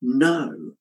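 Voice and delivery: slow firm NO, the word No. set apart and weighted; preacher repeats Jesus' answer, leaning hard on No; emphatic no. Retold or imitated. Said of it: "He is emphatic in his response".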